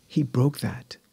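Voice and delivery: hushed, unvoiced whisper of awe. Real, not acted. Sharing his deliverance with the interviewer, whispered. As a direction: breathe it out softly, almost secret.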